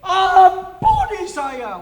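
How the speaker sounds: high, drawn-out loud scream; screamed prayer. Retold or imitated. Arrested boy begs Jesus for forgiveness, screamed prayer. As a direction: scream to Jesus for mercy, stretching the words. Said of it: "saya berteriak kencang sekali".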